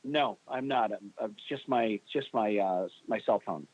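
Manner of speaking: echoey phone sound, like inside a concrete bunker; hollow reverb as if underground. Real, not acted. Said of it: "You sound like you're in a bunker somewhere".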